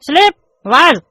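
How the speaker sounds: drags out each English word; slow halting reading. Acted. Pupil reading aloud to the teacher, very slow. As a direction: reads word by word like a struggling pupil.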